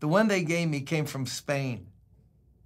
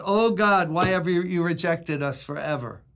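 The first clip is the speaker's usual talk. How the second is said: anguished plea. Acted. Psalmist's lament quoted.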